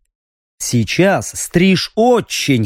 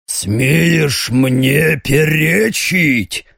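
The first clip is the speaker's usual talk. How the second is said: very slow menacing demon sneer; demonic voice; much slower than usual. Acted. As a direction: drag it out like a monster. Demon mocks defiance.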